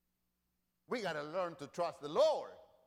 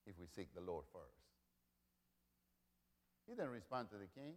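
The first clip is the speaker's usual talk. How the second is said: sudden hush; 8 semitones lower, 11 dB quieter than usual. Real, not acted. Preacher drops to near hush.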